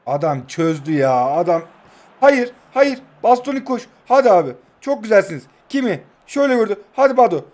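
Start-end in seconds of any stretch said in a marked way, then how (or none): 2.2-6.8 loud, high cries at the late attack; excited yelling. Real, not acted. Streamer yelling his team on in the dying seconds, loud and high. 7.0-7.4 very loud, high repeated screams of the scorer's name; ecstatic screaming. Real, not acted. Streamer celebrating a last-second goal by screaming Badu.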